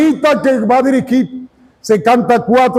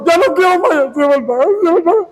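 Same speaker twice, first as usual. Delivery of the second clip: mock sad song; 5 semitones higher, faster than usual.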